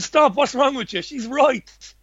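high, urgent call to stop; a firm halt to a pile-on; retold stern stop. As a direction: rein in your own listeners sharply. Stops listeners piling on.

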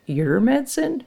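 put-on high-pitched little girl asking; child's question. A narrator's reading. Lucy asking her mother, high child's voice.

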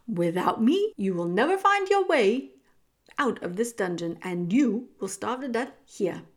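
loud, deliberate villainous rat; menacing rat talking down to a fool; condescending rat. Acted. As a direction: warn her coldly, weighting each threat. Rat warns the girl.

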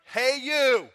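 loud, high parrot holler; high-pitched, blaring bird call. Acted. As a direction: call out sharply as a heckling parrot. Parrot calls out again.

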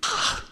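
short, soft mock gasp; acted gasp. Preacher acting out seeing something repulsive, soft gasp. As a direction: let out a small gasp of revulsion. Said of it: "you see something and you're like".

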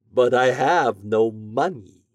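drawn-out theatrical protest; wizard. A narrator's reading. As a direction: object with long stretched words. Wizard objects to paying reward.

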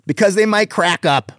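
high-pitched comic payoff; exaggerated punchline. Shown as a demonstration. Comic working on his delivery, high exaggerated punchline. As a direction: lift the whole punchline up high. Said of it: "on the delivery".

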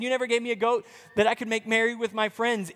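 quick, resentful quote; lightly voiced grudging son; mild bitter complaint; older son's real words. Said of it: "He said".

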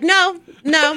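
mock refusal; laughing no. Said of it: "And I'm like".

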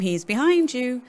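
pantomime call, slow and singsong; broad singsong kids theatre. Pretend. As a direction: panto audience shout, drawn out. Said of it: "Sounds like a pantomime".

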